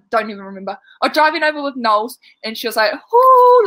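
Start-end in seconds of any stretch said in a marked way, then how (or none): 3.1-3.6 high, loud excited squeal; excited ooh. Retold or imitated. Imitating Knowles squealing over a surprise for the girls. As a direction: squeal it like you can't contain a secret. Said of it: "I remember how excited she was".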